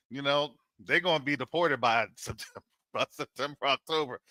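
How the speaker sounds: chuckling through the words; a real laugh breaking into the line. Real, not acted. Commentator laughing at his own deportation joke, chuckling. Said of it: "I shouldn't laugh".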